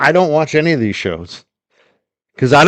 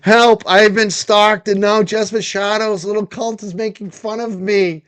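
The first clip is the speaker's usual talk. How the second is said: mock victim; 6 semitones higher than usual. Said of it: "He's like".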